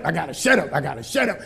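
sinking down to a low hush; mock quiet. Preacher mimicking a silenced churchgoer, going low and quiet. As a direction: fade away like someone told to hush.

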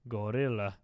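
low grunted gorilla call; gorilla grunts. Pretend. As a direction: grunt it out again, ape-like. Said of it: "I started doing the gorilla sound".

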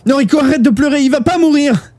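high, desperate angry shouting; angry outburst. A narrator's reading. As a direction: lose your temper in panicked denial. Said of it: "Shuya s'emporta".

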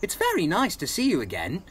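high, excited character voice; delighted to meet a friend again. Acted. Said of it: "puffed excitedly".

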